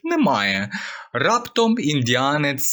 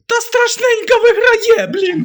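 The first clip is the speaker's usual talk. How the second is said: much higher, loud, fed-up cry; exasperated yell; 7 dB louder than usual. Acted. The caller complains to the rescue service, yelling high. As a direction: blurt out the complaint in despair.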